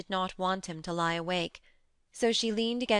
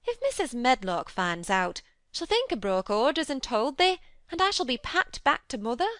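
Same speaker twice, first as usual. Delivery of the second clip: much higher, louder Yorkshire fret; agitated; 6 semitones higher, 4 dB louder than usual. A narrator's reading. Martha cries out in worry to Mary. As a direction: at her wits' end.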